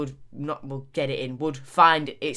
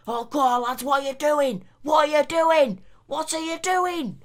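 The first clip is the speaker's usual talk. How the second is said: higher, pleading terrace moan at the players; exasperated Burnley fan; 8 semitones higher than usual. Acted. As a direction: yell at the lads like a fed-up Burnley fan. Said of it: "I'm sort of losing the accent".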